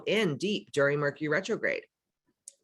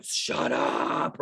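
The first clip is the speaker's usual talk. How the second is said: whispered shut up. Retold or imitated. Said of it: "And you're just like".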